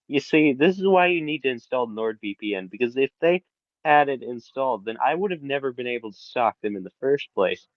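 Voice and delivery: lightly hammed-up sponsor pitch; mock ad read. Cohost jokingly pitching a VPN to viewers, mock ad read. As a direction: sell it like a half-joking commercial. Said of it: "Why am I doing a NordVPN ad?".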